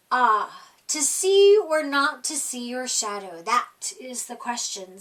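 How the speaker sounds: mock-grand musing owl voice; a hint of a theatrical owl; wise Owl. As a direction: quote it like a pompous sage. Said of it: "said Owl".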